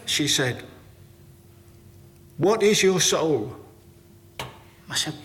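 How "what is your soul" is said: higher, slow, insistent question; Jean's question. Retold or imitated. Jean pressing Jeff on the phone, slow and insistent. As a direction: lean in and ask it slowly and earnestly.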